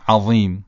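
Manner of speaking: "عظیم" with a thick, emphatic tongue-tip ẓ; heavy ẓāʾ. Shown as a demonstration. Teacher illustrates the heavy letter, "عظیم" said thick.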